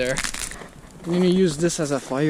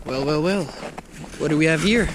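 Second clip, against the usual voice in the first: mock villain; 3 semitones higher than usual. Villain cliché at a find.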